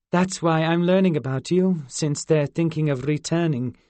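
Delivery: put-on high, curious fairy girl. Zinnia explaining exile.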